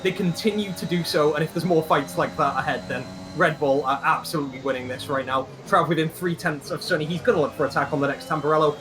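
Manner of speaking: lively race-call delivery; motorsport commentator. Acted.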